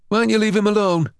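high, quick protest. A narrator's reading. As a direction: step in to defend him. Jimmy intervening.

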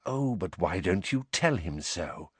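soft, quiet taunt; hushed menace; whispered. A narrator's reading. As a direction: Snape softly taunting Sirius. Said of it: "whispered Snape".

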